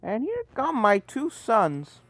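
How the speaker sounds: put-on old mare voice. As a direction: greet the sons slowly, fondly. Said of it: "said an old green unicorn mare".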